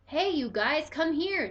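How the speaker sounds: high, loud call. A narrator's reading. Toby calls the pets, high and loud. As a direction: call them over. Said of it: "Toby called".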